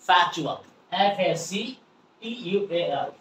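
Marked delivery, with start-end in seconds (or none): 0.1-0.6 ফ্যাকচুয়াল said as "fa-chu-al", k barely heard; corrected pronunciation. Shown as a demonstration. Teacher corrects viewers' lifelong mistake, careful modelled pronunciation. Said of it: "আমরা কি বলবো?".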